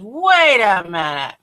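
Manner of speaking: slow, drawn-out "wait a minute"; retold halting call. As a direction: imitate a friend stretching out an order to stop. Friend halts the ride abruptly.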